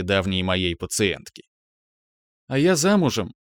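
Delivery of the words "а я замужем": boasting. Acted. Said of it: "похвасталась".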